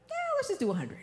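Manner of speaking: small, high, sheepish giving-in; soft high mock-meek yeah. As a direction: play the timid wife, squeaky and soft. Meek reply to husband.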